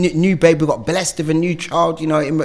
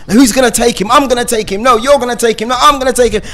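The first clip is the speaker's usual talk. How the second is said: higher, quicker, keen bickering; eager back-and-forth; 5 semitones higher, faster than usual. Retold or imitated. Recalling both parents fighting to do the school run, eagerly.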